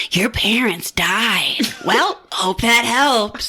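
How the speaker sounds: slow, drawn-out mock-cheerful bad news; hammed-up, slow delivery with a chirpy finish; excited doctor. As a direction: imitate a doctor oddly pleased with grim news. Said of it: "he sounds, like, excited they're dead".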